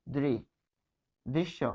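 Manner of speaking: দৃ said slowly as dri, then দৃশ্য whole; sounding out dri. Shown as a demonstration. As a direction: break দৃশ্য into দৃ and শ্য. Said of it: "এখানে হবে দৃ". (ধীরে ধীরে দৃ উচ্চারণ)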